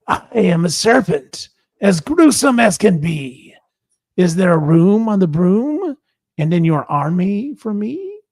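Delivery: a hint of a gruesome serpent asking politely. Serpent asking the witch to join, lightly voiced.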